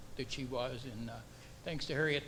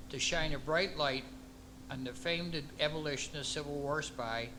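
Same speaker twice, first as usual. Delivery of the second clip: measured ceremonial reading with pauses between clauses; formal proclamation. Acted. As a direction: read out an official proclamation, phrase by phrase.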